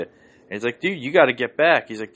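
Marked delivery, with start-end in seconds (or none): 0.8-1.9 louder, higher cop ordering him back; retold cop shout. Cop ordering Bilzerian back, loud and high. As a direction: bark it like a cop holding a line.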